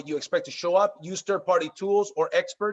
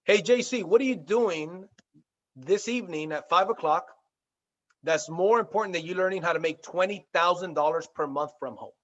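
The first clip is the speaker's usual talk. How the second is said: excited go-getter. Shown as a demonstration. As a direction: sell it with drive to your friend. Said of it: "Get excited, act as if".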